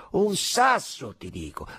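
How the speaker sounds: high, loud, drawn-out words; stubborn insistence. A narrator's reading. Soldier answers the doubter, loudly stubborn. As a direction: hammer it home slowly at full voice.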